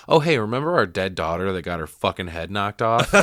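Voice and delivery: mock jolly prankster. Parent pranking the family about a dead daughter, mock jolly. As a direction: pitch a tasteless prank as if it's fun.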